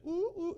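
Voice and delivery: mock grunts. Shown as a demonstration. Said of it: "eso no es voz de júbilo".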